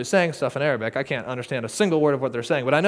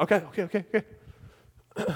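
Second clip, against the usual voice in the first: relieved laugh; 4 dB quieter than usual. Real, not acted.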